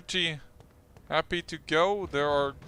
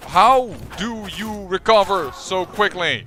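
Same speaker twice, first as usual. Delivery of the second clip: put-on Irish accent; 4 semitones higher, 8 dB louder, slower than usual. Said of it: "Did you just use an Irish accent?".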